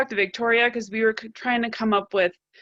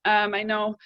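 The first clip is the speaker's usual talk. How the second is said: breathless, short breaths between phrases; talking while winded. Real, not acted. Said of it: "Sorry, I'm out of breath".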